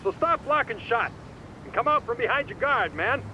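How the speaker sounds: rousing boxing pep talk. Acted. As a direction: pump him up like a coach.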